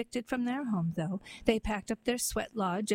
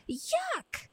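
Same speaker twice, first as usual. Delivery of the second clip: disgusted. Acted. Snow White disgusted at prince.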